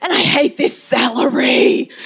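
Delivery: high, drawn-out hammed-up fury; mock tantrum. Mother throwing shopping to copy her cranky son, mock tantrum. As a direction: play up a child's tantrum, stretching the words high. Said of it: "was having a tantrum".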